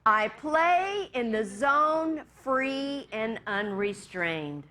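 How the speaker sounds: measured, spoken affirmation; slow group affirmation. Acted. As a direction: recite it slowly and deliberately, word by word. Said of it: "this affirmation we say together".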